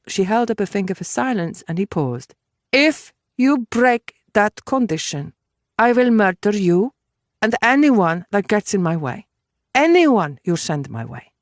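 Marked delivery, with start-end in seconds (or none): 2.7-11.3 deliberate, emphatic threat; stern woman issuing an ultimatum; Judith, threatening. Acted. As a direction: warn him word by word, in deadly earnest. Voices Judith threatening Walton.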